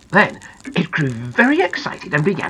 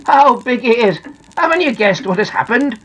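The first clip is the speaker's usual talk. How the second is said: amused, higher-pitched character voice; chuckling; 6 semitones higher, 4 dB louder than usual. Acted. Little Ears lets Big Ears in on it, amused. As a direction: ask with a touch of merriment. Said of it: "said Little Ears, chuckling".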